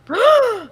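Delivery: sharp high gasp, loud; real gasp of shock; startled gasp. Real, not acted. Reacting to the laptop screen, startled high gasp.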